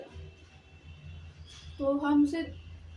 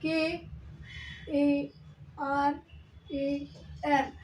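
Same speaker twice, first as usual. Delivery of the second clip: spelled out; 5 dB quieter, much slower than usual. Shown as a demonstration. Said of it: "English में लिखा जाए तो हम लिखते हैं".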